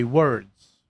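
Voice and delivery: "words" with the R fully sounded; natural rolled R. Shown as a demonstration. Showing their natural response, "words" with a strong R. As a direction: let the R roll in "words". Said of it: "roll my R".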